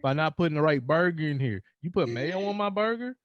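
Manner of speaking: hammed-up drive-through fury; mock outrage. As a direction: scold the fast-food worker in your head. Imagined rant at drive-through.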